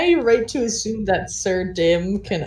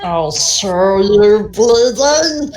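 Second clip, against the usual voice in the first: angry threat; 7 dB louder, much slower than usual. Acted. Dragon threatens kobold.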